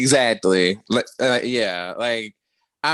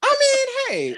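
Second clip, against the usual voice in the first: laughing; 4 dB louder than usual. Real, not acted. Laughing at the gossip.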